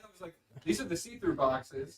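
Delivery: faint voice far from the mic; calling from another room. Real, not acted. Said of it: "Henry, you gotta get a mic".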